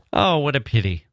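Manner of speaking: high, dismayed exclamation; mild wail of disappointment; crying out. A narrator's reading. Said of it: "she cried".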